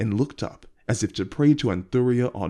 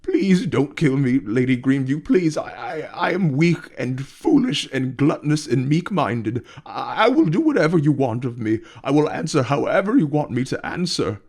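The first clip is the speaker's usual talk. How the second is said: loud, higher, panicked begging; shouting, sobbing plea; 5 semitones higher, 5 dB louder than usual. A narrator's reading. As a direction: beg for your life at full volume. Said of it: "With shouts and sobs".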